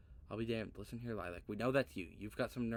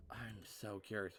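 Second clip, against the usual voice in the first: whisper; 5 dB quieter than usual. Real, not acted. Reading dialogue option aloud.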